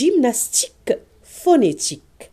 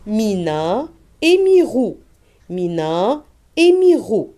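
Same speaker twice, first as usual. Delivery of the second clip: loud reading; 2 semitones higher, 5 dB louder than usual. Shown as a demonstration. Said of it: "Très bien".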